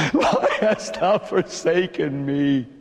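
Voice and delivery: slow, broken question; anguished plea. Acted. Jesus to the Father, slow broken plea. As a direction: ask it in despair, slowly. Repeats cry, slower.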